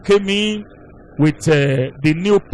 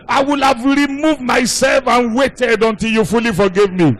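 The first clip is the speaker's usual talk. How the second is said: raised, pleading retelling of a crying husband; crying aloud; 3 semitones higher than usual. Retold or imitated. Elderly husband to his wife in hospital, mock tearful plea. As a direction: act out a distraught husband's plea. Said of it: "crying aloud and said".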